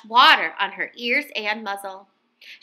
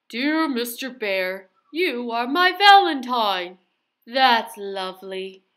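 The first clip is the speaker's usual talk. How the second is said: Mister Bear reading. A narrator's reading. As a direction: read it tenderly.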